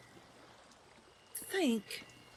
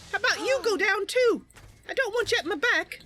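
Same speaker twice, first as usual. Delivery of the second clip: taunting shout; 4 semitones higher, 5 dB louder than usual. Real, not acted. Taunting enemies in combat.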